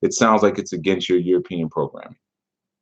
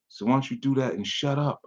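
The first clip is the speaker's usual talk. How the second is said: much softer, dismissive "shut up"; quiet dismissive jab; 4 semitones higher, 8 dB quieter than usual. Real, not acted. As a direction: toss it off under your breath. Dismissive retort.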